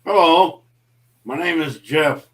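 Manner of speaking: a half-hearted stab at a Jeff voice; Jeff impression. Livestream host does his requested Jeff impression, lightly voiced. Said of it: "That's the worst Jeff impression".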